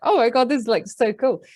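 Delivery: lightly voiced thrilled horse; elated horse. Horse delighted to be heard, mildly excited. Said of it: "like, elated".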